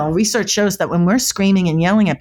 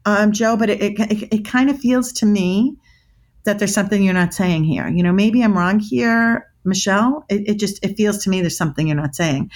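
calm demo; 3 semitones higher than usual. Shown as a demonstration. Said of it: "you have to say it calm".

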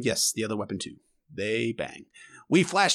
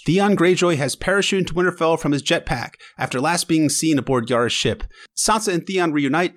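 usual speaking voice

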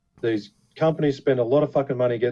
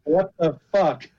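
mock disbelief; 6 semitones higher, slower than usual. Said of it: "Corin sent it to me going".

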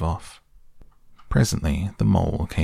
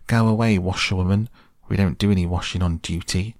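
raised, haughty dismissal; proud, stiff, haughty. Retold or imitated. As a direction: send her off like a stiff sentry. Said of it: "very proud and stiff and haughty".

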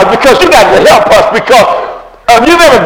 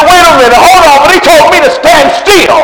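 indignant retort; 6 semitones higher than usual. Retold or imitated. Retorting to the pious friend.

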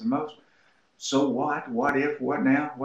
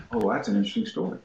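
laughing; faster than usual. Retold or imitated. Worker laughs, starts his story.

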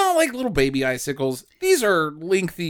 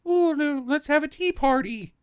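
put-on prissy child; 8 semitones higher, 3 dB quieter than usual. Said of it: "He wasn't just being like".

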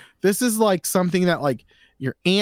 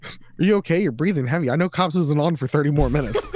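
teasing wife, through laughter; laughing; faster than usual. Retold or imitated. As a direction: ask it while cracking up. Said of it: "She'd be like".

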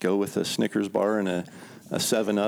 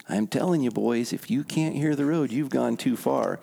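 put-on drunk bum voice; 4 semitones higher than usual. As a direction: press the point like gospel. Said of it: "And he's like".

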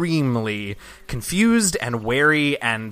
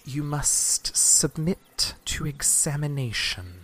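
guard voice; 3 semitones higher, 4 dB quieter, much slower than usual. Acted. Guard leader demands an inspection.

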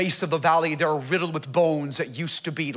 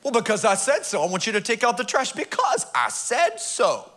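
stern parent order; 4 semitones higher than usual. Retold or imitated. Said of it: "That's all I got".

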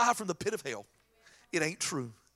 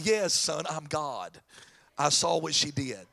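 low, unruffled fatherly reply; lightly voiced all-knowing dad, pitched down; patient answer to an eager son; God the Father; 7 semitones lower than usual. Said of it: "Jesus looks over to God the Father".

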